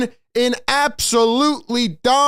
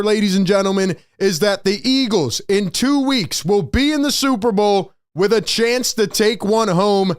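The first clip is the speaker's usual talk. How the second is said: hoarse; 2 semitones lower than usual. Real, not acted. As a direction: voice going hoarse from yelling. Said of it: "I'm losing my voice".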